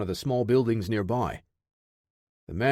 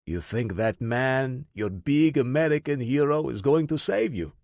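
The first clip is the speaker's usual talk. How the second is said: put-on Russian accent. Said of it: "thick Russian accent".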